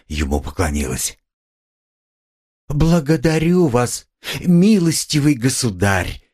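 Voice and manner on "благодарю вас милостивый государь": high, slow and condescending; lofty, proud thanks; haughty. A narrator's reading. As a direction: speak down to him from a height. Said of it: "начала она свысока".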